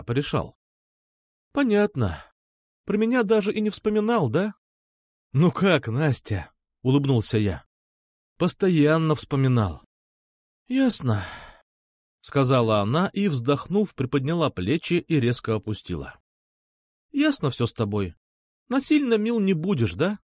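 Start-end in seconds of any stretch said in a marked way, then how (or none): 1.5-4.5 put-on higher, mildly hurt girl; a hint of a pouting girl teasing; lightly voiced sulky girl. A narrator's reading. Nastya's pouty reproach. 18.7-20.2 put-on higher, mildly hurt girl; a hint of a pouting girl teasing; lightly voiced sulky girl. A narrator's reading.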